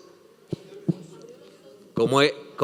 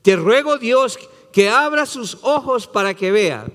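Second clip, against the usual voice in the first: fervent prayer; 7 semitones higher than usual. Acted. Preacher voices Elisha's prayer.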